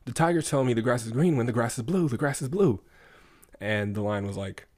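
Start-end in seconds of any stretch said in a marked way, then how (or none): 0.1-2.8 complaining donkey. Retold or imitated. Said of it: "the donkey's like".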